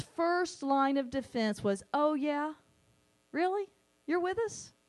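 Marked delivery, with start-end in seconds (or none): 1.9-4.7 mocking attitude. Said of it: "cocking a little bit of an attitude".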